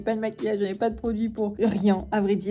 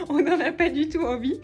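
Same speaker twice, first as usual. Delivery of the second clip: laughing; 3 semitones higher than usual. Real, not acted. Laughing about having to film.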